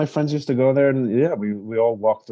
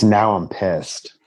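slow imitation of ghost; 4 semitones lower, much slower than usual. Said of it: "I think it's".

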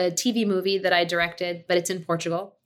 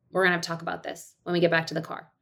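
firm quick warning; 2 semitones lower, faster than usual. Retold or imitated. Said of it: "in Portuguese".

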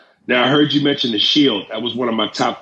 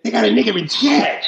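high-pitched mock Boston accent; 10 semitones higher than usual. Riffing on co-host's story about a white comedian, Boston accent. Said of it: "I like your, I can't do the accent".

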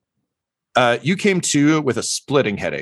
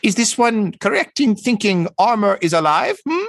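high bird voice, prying question; conspiratorial; 12 semitones higher, 3 dB louder than usual. Acted. Bird doctor leans in to Tortle, conspiratorial high voice. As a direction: probe a secret as a high-pitched bird creature, without whispering. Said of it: "conspiratorially says".

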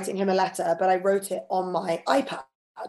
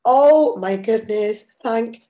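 relieved exclamation; 3 dB louder, slower than usual. Retold or imitated. Guest recalling the unsent text, loud slow relief. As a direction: gasp of relief at a bullet dodged. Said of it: "and I thought".

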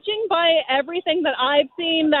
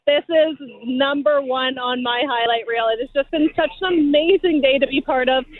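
hoarse, worn-out voice from cheering; cheered-out, fading voice; voice giving out. Real, not acted. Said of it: "I'm losing my voice".

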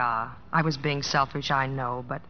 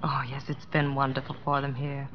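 whispered; 3 semitones lower, 5 dB quieter than usual. Acted. Wife talking softly with husband.

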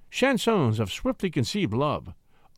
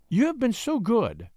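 higher-pitched, gracious lady; smiling; 8 semitones higher than usual. A narrator's reading. Lady thanks the poet who tied her shoe, smiling. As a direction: say it through a smile.

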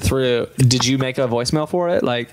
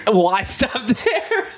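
slow echo of the caller; 7 semitones higher, much slower than usual. Retold or imitated. Echoing the caller in disbelief.

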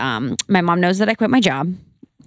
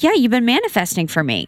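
imitating mother; 6 semitones higher than usual. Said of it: "she's like".

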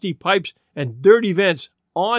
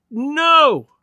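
high, louder cry of refusal; dismayed protest; 8 semitones higher, 4 dB louder than usual. A narrator's reading. Old lady heading off bad news, dismayed. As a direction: cut in with dread.

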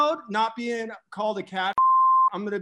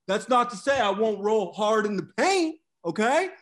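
Sam Tripoli impression. Host boasting to the guys about Bitcoin, a brash cocky Sam voice that builds up. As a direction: brag like a cocky stock picker who gets more fired up. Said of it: "That was the best fucking Sam Tripoli impression".

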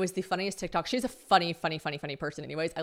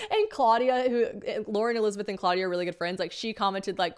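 ordinary talk, nothing marked

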